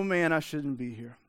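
excitement dropping away into dismay; deflated after the awestruck rush; sinking realisation. Acted. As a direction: let the voice fall, acting suddenly unworthy. Acted awe turns to unworthiness.

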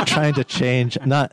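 trying to keep a straight face; words cracking into laughter; laughing. Real, not acted. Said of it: "You can't even say it with a straight face".

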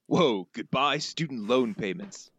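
lightly voiced crook, words stretched out; Snake. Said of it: "your best snake voice".

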